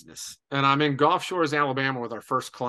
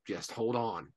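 calm reply; 4 semitones lower, 9 dB quieter, slower than usual. Retold or imitated. Retold captain's calm answer.

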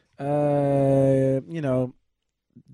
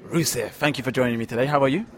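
movie voice; 5 semitones lower than usual. Acted. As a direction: put on a deep, slightly threatening announcer voice. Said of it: "you sound a little hostile".

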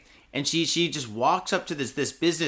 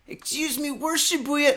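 high, simple polite ask; light high-voiced lady asking nicely; polite tourist; 12 semitones higher than usual. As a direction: show how easy asking could be. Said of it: "she could have easily just said".

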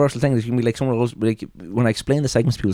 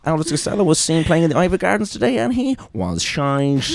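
raised bulletin cadence, slowing to a laughing punchline; mock newsreader; 5 semitones higher than usual. Host introducing bad live singing, mock news report intonation.

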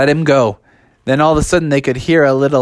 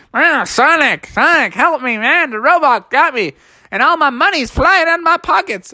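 higher, panicky cry for help; pleading Froggy; 10 semitones higher than usual. Acted. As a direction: beg your friend to save you. Froggy caught by robot claw.

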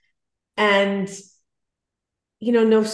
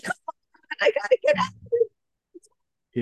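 impatient plea; much faster than usual. Retold or imitated. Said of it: "I'm like".

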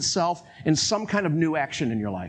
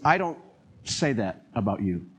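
gentle divine voice; 5 semitones lower than usual. Retold or imitated. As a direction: speak like a tender, correcting God. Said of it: "a totally different voice and a different mood".

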